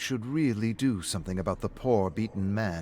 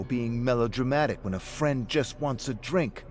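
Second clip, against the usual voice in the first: higher sarcastic jab; mocking friend; 3 semitones higher, 4 dB louder than usual. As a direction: tease him, a bit raised. Rick taunts David in bar.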